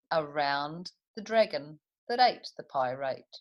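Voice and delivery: lively storybook rhyme reading; reading to children. A narrator's reading. Teacher reads Custard the Dragon to the class, lively storybook voice. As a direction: bounce the rhymes for little listeners.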